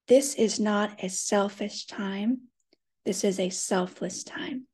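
measured meditation mantra with pauses between phrases; guided mantra. Acted. Leader saying a mantra together with the group, measured and meditative. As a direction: recite it evenly, letting each sentence settle.

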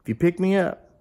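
talking bullfrog. Acted. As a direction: plead quietly like a little talking frog. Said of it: "there was a bullfrog sitting there".

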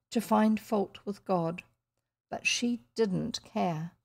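measured storybook reading; even-voiced novel narrator; story narration. A narrator's reading. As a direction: narrate the scene with care, pausing between phrases.

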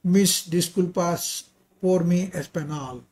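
slow Spanish with a foreign accent; careful learner's Spanish, taken slowly. Real, not acted. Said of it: "apologies for my Spanish pronunciation".

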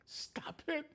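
soft, high, strained plea; anguished plea. Acted. Begging soldiers to stop the nailing.

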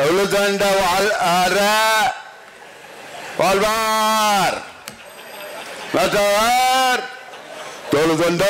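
put-on slow, halting Tamil with a Hindi accent; mock a Hindi speaker reading Tamil verse; Modi's Hindi accent Tamil. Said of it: "எப்படி வாசிச்சாரு பாத்தீங்களா?".

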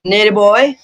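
imitating an English accent, voice rising; questioning call in a put-on English accent; borrowed English accent, lifted at the end; copied English accent. Shown as a demonstration. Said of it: "Tapos kukunin ko yung accent".

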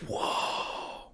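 hushed, breath-only awed whoa; childlike wonder. Retold or imitated. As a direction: whisper it in amazement, drawn out. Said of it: "my childhood wonder".

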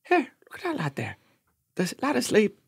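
put-on drunk strangers on the bus. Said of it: "they started, like, going".

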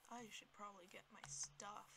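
quiet whispered aside. Real, not acted. Player sneaking for items, whisper. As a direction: whisper the plan.

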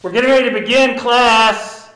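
lightly played teacher settling a class. Teacher quieting a pretend class before the program, teacher voice. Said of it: "I do like your teacher voice".

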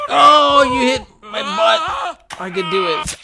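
high, loud outraged yelp; squealing shout. Real, not acted. Player hit in the butt in the pogo game, squealing shout. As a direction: squeal when the hit lands.

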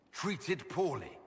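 repeating the slaver's euphemism in disbelief; incredulous echo. Real, not acted. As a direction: throw his own words back at him. Echoing his words in disbelief.

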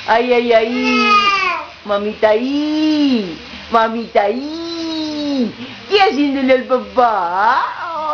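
slow, drawn-out mock whimper with a laugh; imitating dad's teasing. Mom imitating how the baby's dad mimicked her: slow mock whimper. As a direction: stretch each ay like a teasing crybaby. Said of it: "Así me remedaba tu papá".

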